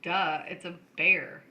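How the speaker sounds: put-on slow, cocky teen put-down. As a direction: state it as if it's obvious. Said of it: "'cause I was all cocky".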